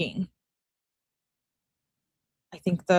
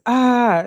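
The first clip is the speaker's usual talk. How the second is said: raised, louder read-out "ah"; mild mock scream; 6 semitones higher, 7 dB louder than usual. Reading out the husband's scream from the emergency call, mildly imitated. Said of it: "as he's screaming".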